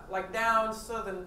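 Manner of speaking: slow Southern accent. Shown as a demonstration. Guest shows host another accent, slow Southern accent. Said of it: "Ang Southern naman iba".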